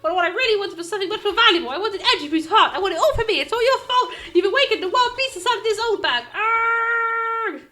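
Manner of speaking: put-on loud, fast, laughing old lady rant; cackling old busybody. Old guard scolding Phoenix, loud and cackling. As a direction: screech it at the lawyer.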